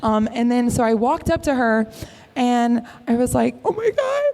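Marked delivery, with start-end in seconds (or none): 3.7-4.2 high, very slow, tearful gush; sobbing love confession to a celebrity; retold sobbing. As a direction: choke out the words through happy tears. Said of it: "'Cause I'm sobbing".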